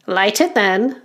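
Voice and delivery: lightly voiced goblin elder giving orders; goblin uncle. Goblin uncle telling the children to light up, elder goblin. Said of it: "says the uncle".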